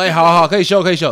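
loud urgent call to rest, high and loud; calling out to stop. Retold or imitated. Coach calling to a pale, exhausted student to stop. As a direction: shout at her to stop and rest.

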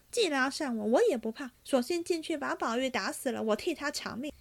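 angry ranting. Acted. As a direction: rattle it off like a hothead cornered by blame. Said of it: "又骂众人".

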